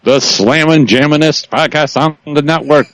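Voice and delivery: hyped-up morning DJ; radio DJ voice. Pretend. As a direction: hype it like a radio host. Mock radio DJ hype.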